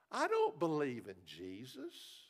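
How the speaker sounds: slow, sweet-voiced refusal from the lady; a lightly voiced lady, calm and slow; imitating the lady. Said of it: "that's the way she said it".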